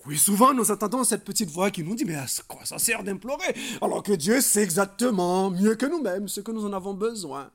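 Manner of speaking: loud, forceful sermon voice; animated preaching. Real, not acted. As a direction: press the objection on the congregation. Preacher voices a doubting objection.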